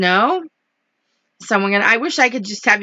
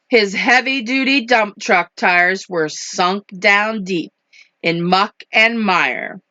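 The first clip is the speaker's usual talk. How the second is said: measured picture-book narration; rhythmic storybook delivery; story reading to children; 2 semitones lower, slower than usual. A narrator's reading. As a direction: read the rhyme with care. Reads picture book aloud.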